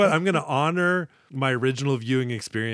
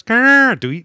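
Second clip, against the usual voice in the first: mock eagle screech; 10 semitones higher, 9 dB louder than usual. Imitates an eagle cry.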